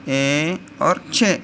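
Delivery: slow spelled sounds. Shown as a demonstration. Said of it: "टू vowels पे रहे हैं".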